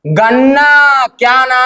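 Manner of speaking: very drawn-out, incredulous echo; disbelief. Acted. Reacting to an order to peel sugarcane, disbelief. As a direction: stretch the words out in disbelief.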